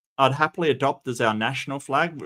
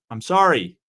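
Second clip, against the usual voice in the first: louder apology; 6 dB louder than usual. Real, not acted.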